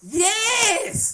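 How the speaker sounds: sudden high, loud burst of yes; an indignant yes that leaps up loud; emphatic yes. Real, not acted. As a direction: shoot back yes, insisted. Insisting she tells women upfront.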